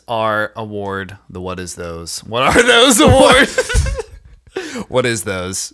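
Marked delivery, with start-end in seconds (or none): 2.2-5.7 laughing. Real, not acted. Laughing repeat of award name.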